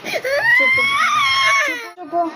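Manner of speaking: high, loud pleading hush over a wail; frantic hushing. Real, not acted. Mother to sobbing daughter, loud pleading hush. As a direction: hush her loudly through tears. Soothing a crying child.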